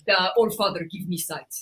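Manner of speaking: low, reverent mock incantation; a lightly voiced Bloodhound invocation; Bloodhound line. Shown as a demonstration. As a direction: murmur it like a prayer to the All Father. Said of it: "Let's go with that one".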